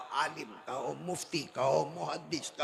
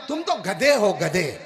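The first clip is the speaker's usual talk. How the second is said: insulting call; 7 dB louder than usual. Retold or imitated. Maulana insults him again.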